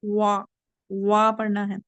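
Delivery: वा said with a clear open a after the w; correct vowel sound. Shown as a demonstration. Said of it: "इसको वा नहीं पढ़ना है". (वा को साफ़ खुले 'आ' से बोलना)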